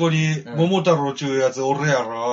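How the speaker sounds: a lightly voiced Kansai oni barging in; Kansai-dialect oni. Oni henchman confronting grandparents, in a slow Kansai-dialect demand. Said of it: "相変わらず関西弁だ".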